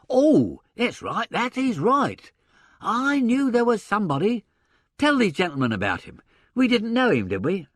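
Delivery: lively agent voice working it out; gruff theatre agent. Acted. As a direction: voice a blustering old stage agent. Sullivan remembers.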